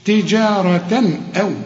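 تجارة أو with a clean "n" before the hamza; no nasal hold between تجارة and أو; clear izhar. Shown as a demonstration. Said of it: "هنا ما نغنش". (تجارة أو بإظهار التنوين دون غنة)

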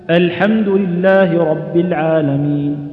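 الحمد لله recited slowly with a thin first vowel; light-hamza recitation. Shown as a demonstration. Quran teacher demonstrating the opening verse, light slow recitation. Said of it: "تقول".

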